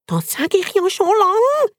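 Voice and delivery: squeaky guinea pig. Acted. Turbo to Bacon, squeaking smugly. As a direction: squeak it out like a smug rodent. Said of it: "quietscht der Turbo".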